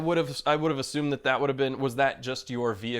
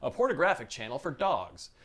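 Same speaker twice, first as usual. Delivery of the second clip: crisp broadcast news read; news anchor voice. Acted. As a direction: deliver it like an evening anchor. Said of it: "This is my best anchor".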